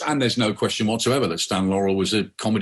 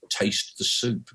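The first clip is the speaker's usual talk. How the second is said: slow, softer, deliberate repeat; deadpan old man; 2 semitones lower, 5 dB quieter, much slower than usual. Retold or imitated. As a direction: say it slowly and flatly, like a patient old man. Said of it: "And he goes".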